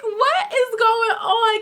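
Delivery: high, drawn-out disbelief; hammed-up squeal of bewilderment; bewildered. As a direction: stretch it out slowly, voice way up. Retold bewilderment at the scene.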